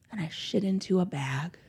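whispered confession, soft and breathy. Real, not acted. Mother admitting to podcast cohosts what she did, in a whisper. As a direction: drop to a whisper for the punchline.

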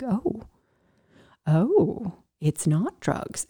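soft, dawning "oh"; hushed realisation. Retold or imitated. Medics realising it is not drugs, hushed realisation. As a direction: drop the voice as it sinks in.

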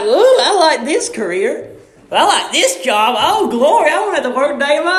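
hammed-up dreamy excitement over jobs; mock delight. Browsing jobs, dreaming of money, mock delight. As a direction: savour the easy life, half laughing. Acting his own greedy delight.

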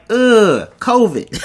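high, loud, grossed-out exclamation; mock disgust. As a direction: recoil in exaggerated disgust. Retold disgusted reaction to spitting.

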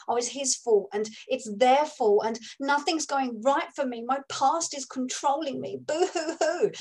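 mock the self-pitying victim; hammed-up boo-hoo complaining; mock victim whine. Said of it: "that's how most of the world live".

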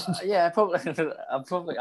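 giggling through the words; can't keep a straight face; laughing. Real, not acted. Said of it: "I couldn't even say that without laughing".

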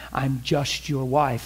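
slow, sorrowful quote; mild imitation of crying. Husband retelling his crying wife, mildly sorrowful. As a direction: echo her tearful words, understated. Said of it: "she's crying".

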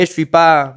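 "Je suis pas" with "je suis" blended into "chui"; clipped spoken "Je suis pas"; je suis slurred. Shown as a demonstration. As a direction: run "je suis" together into one sound. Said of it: "suena suis".

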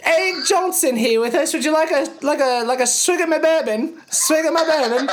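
high put-on British accent, hammed-up; British accent test. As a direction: play a jolly British host offering bourbon. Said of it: "is going to be in a British accent".

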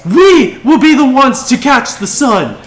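high, loud proclamation to a crowd; leader's rallying yell. Acted. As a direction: rouse them with a yelled slogan. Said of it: "she yells out to the crowd".

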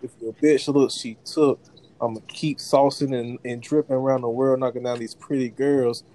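ringmaster. Acted. Rhymed hype intro continues.

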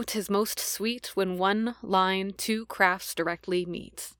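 slow, theatrical recitation of verse; Shakespeare reading. Shown as a demonstration. Reading Hamlet to the cohost who asked for oomph, slow theatrical recitation. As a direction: declaim it like a stage actor with some oomph. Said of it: "rendition of Hamlet".

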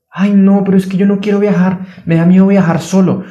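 mock whimpering worry; whiny fearful voice. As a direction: play the scared mind pleading. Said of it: "Esa es la voz otra vez".

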